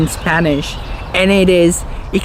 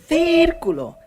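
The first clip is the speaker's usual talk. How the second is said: círculo stressed on the first syllable, CÍR-culo; Spanish stress demo; 8 semitones higher than usual. Shown as a demonstration. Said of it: "different meaning depending on what syllable".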